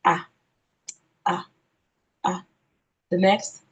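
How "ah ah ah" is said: short open "ah" sound for letter A; each "ah" said alone, open British vowel. Shown as a demonstration. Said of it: "If you're going the British way".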